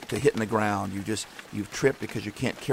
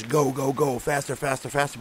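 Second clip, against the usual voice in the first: higher-pitched, lightly yelled urging; mock yelling; 4 semitones higher than usual. Life on our back yelling at us, mock yell. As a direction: play life nagging us to hurry, voice raised in pitch. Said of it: "tends to yell at us".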